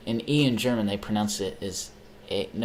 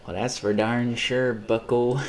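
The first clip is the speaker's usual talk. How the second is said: put-on Midwest accent; 2 semitones higher, 4 dB louder, slower than usual. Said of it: "the Midwest accent".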